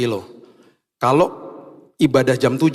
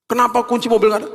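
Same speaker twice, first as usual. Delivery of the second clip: higher, fast irritated complaint; annoyed; 10 semitones higher, faster than usual. Retold or imitated. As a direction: grumble fast like you're fed up. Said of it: "Karena saya kesel awalnya". (kesal, cepat dan tinggi)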